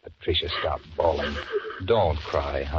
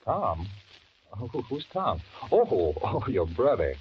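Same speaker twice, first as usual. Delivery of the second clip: nervous, higher, stumbling over words; flustered stammer; 4 semitones higher than usual. Acted. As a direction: cover up a scare badly. Flustered lie about brother.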